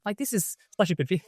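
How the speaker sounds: laughing through the words. Real, not acted. Telling Bob how happy she is, laughing. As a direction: giggle while praising Bob.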